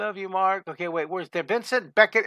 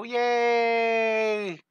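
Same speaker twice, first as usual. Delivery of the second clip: cheer; 4 semitones higher than usual. Shown as a demonstration. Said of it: "take your fingers and go".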